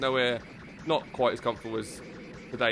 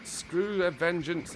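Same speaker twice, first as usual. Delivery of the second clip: excited shout; 8 semitones higher, much slower than usual. Pretend. Gamer mocking revenge plot.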